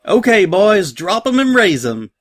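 pirate mare ordering with a twang; Peach twang. A narrator's reading. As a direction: call it out in a twangy Southern accent. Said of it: "Dream Valley Peach twang in her voice".

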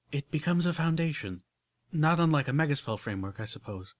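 a hint of genteel unicorn, explaining; lightly voiced refined lady. Rarity explaining soul jars to Applejack, lightly refined voice. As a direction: lay it out carefully, ladylike.

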